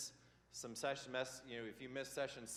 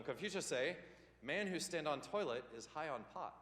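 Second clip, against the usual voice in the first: light mock Chinese-accented proverb voice; a hint of a mock Chinese accent; teasing Chinese accent, barely put on; mock Confucius accent; 4 semitones higher than usual. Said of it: "I will talk like this".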